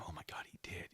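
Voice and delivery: hushed whisper. Real, not acted. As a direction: whisper it like a secret. Reading chat, reacting hushed.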